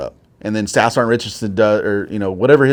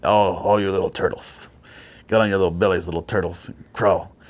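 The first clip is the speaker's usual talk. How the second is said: lightly voiced, mocking sergeant teasing recruits; mocking drill sergeant; 4 semitones lower, 5 dB quieter than usual. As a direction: taunt them like little turtles. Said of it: "he's like".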